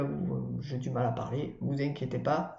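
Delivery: talking with a parched dry mouth. Real, not acted. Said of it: "j'ai la bouche sèche".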